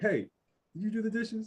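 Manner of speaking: mock half-aggressive tone, loud and very high. Describing how people usually ask about chores, mimicking a half-aggressive question. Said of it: "kind of like half half aggressive".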